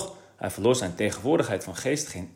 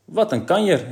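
higher, louder call of amazement; 8 semitones higher, 5 dB louder than usual. A narrator's reading. Gerrit marvelling at the huge cake, called out louder. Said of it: "riep Gerrit".

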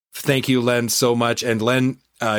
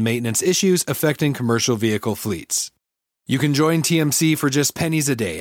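chipper 1950s ad; 2 semitones higher than usual. Acted. Host reads sponsor ads.

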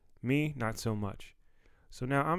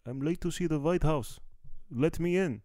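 high put-on panicked voice; frantic runner; 6 semitones higher than usual. Comedian replays himself running to the gate, high and frantic. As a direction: beg to be let in like a frantic tourist. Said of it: "this Persian Bolivian running down".

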